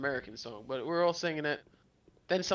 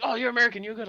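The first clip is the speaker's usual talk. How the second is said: mock reassuring locals; 8 semitones higher, 8 dB louder, much faster than usual. Mock quote of Belgians again.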